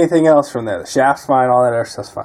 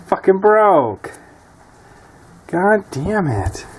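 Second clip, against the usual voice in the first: bitter cursing; 7 semitones higher, slower than usual. Real, not acted. Part broke, slow curse.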